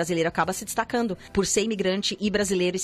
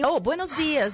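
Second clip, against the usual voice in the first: mock Spanish greeting; 7 semitones higher, slower than usual. Mimicking foreigners' clumsy greetings.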